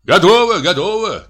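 high-pitched calling out; guests' cheerful call. A narrator's reading. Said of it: "крикнули гости". (выкрик гостей)

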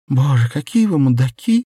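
high, loud, anguished cry; acted fed-up outcry; exasperated outburst. A narrator's reading. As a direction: burst out at them in despair. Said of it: "вырвалась она".

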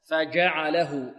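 "فجعله" slowly with mid-tongue j; pure jim. Shown as a demonstration. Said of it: "لا نشمها".

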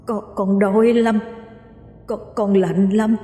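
lightly voiced lost spirit, moaning and begging; wailing ghost.

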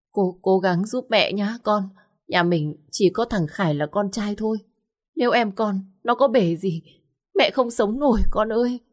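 a mother begging her daughter, close to sobbing; mother crying to her daughter about her son; tearful mother. Acted. Mother weeping on phone.

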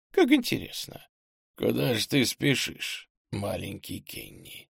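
hint of a creepy villain; sly stranger musing. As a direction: muse slyly, fading away on the name. Stranger secretly muses after Kenny.

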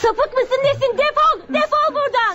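shrill angry get-out; frightened anger. Acted. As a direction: drive the creep off in panic. Woman confronts the stalker.

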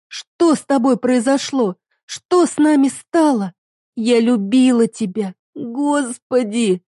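wife confronting husband about lost love; tearful reproach. Acted. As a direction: plead through hurt. Heroine pleads in tears.

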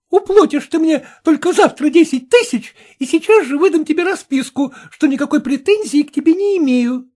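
high, loud, pushy woman's voice; demanding sister. Acted. Dead man's sister threatens the heir, high and pushy. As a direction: press him hard, threatening.

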